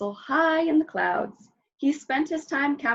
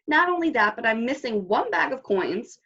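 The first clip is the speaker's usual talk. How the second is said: indignant giant; 3 semitones higher than usual. Acted. Giant lists his grievances.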